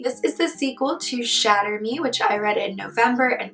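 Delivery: hoarse, husky sick voice; talking through a sore throat. Real, not acted. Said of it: "in my sick voice today".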